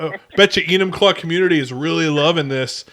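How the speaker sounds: imitating a snide commenter; lightly mocking, pretend approval; mock sarcastic. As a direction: quote it with a touch of sarcasm. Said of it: "One guy's super sarcastic about it".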